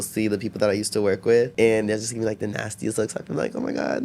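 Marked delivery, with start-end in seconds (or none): 3.5-4.0 unvoiced, mock-horrified whisper; whispered aside. Ex-coworkers glaring.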